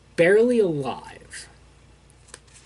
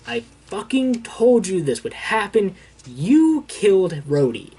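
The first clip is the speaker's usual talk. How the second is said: higher-pitched mock outrage, slowing at the end; retold angry accusation; 5 semitones higher than usual. Tony blaming Carol for Rhodey's death, retold angry accusation. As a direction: lay the blame, drawing out the last words.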